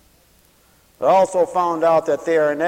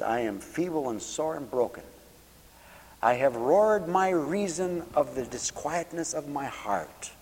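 mother quoting scripture; 5 dB quieter than usual. Retold or imitated. Mother weeping at the table, softly reciting the psalm. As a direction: quietly recite it as the grieving mother did. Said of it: "And she says".

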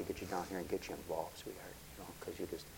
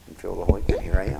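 much louder proclamation; triumphant shout; 14 dB louder, faster than usual. Real, not acted. To the congregation, joyful loud testimony. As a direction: ring it out in victory.

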